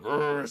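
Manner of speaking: growl. Acted. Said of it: "says Mad Rotor".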